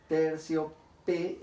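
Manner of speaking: "tercio P" in slow beats, weight on "P"; stress on P. Shown as a demonstration. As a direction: slowly split it, leaning on the "P". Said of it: "la sílaba ha tenido una mayor fuerza de voz". (despacio, con más fuerza en "P")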